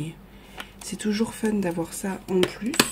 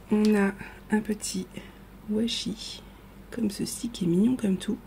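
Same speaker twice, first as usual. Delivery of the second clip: ASMR whisper. Shown as a demonstration. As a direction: breathe the words like an ASMR video. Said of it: "je vous fais un A S M R". (chuchotement ASMR)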